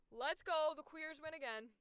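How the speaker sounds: loud, high victory call; hyped-up celebration; excited cheer. Real, not acted. Cheering LGBT cast news.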